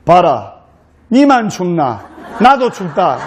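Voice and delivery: blunt Gyeongsang dialect retort; brusque Gyeongsang groom. Acted. Groom refuses his cold bride in brusque Gyeongsang accent. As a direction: rebuff her bluntly in Gyeongsang speech. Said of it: "경상도 신랑이".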